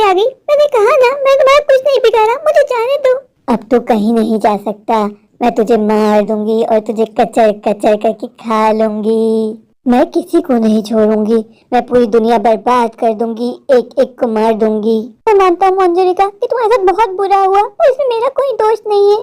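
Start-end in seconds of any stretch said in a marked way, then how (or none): 0.5-3.2 higher, fast panicked plea; frightened pleading. Acted. Man pleading with the witch. 3.5-15.0 deep, eerie vengeful witch. Acted. Witch threatens to eat him.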